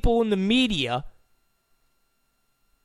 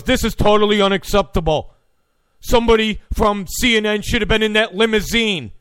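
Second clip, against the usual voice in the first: fast, louder indignant anchor; Wolf Blitzer; 4 dB louder, faster than usual. Retold or imitated. Host mocking a news anchor's complaint, fast and indignant. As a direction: rattle off the outrage like a TV anchor. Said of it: "when Wolf Blitzer goes".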